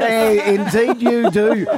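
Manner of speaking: slow, amused laugh through words. Real, not acted. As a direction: chuckle it out. Laughing at bureau joke.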